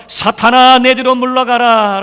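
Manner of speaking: firm rebuke. Acted. Jesus looking at Peter, a loud firm rebuke. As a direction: order him back.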